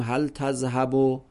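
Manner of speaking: تذهبو ending in a long -u, hæl tæzhæbu; ending vowel shown. Shown as a demonstration. Teacher showing the final vowel to students, plainly. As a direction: land on the -u of تذهبو.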